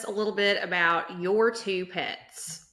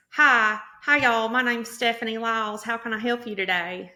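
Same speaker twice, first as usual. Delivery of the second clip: put-on strong Southern accent; 2 semitones higher, 3 dB louder than usual. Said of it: "such a strong vowel slant".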